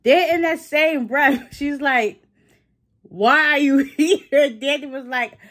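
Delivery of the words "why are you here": half-laughing the question out, slowly; laughing disbelief. Retold or imitated. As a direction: giggle through a mock puzzled why. Andy re-asking Danny, laughing.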